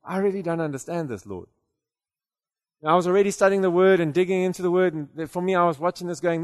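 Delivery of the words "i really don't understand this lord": baffled retold prayer. Preacher recalls silently questioning God during worship, quietly baffled. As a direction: mutter it privately to God, puzzled. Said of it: "I'm sitting there watching, going".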